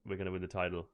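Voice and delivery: put-on lightly done Danish accent; a hint of a Danish accent. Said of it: "do it in a bad Danish accent".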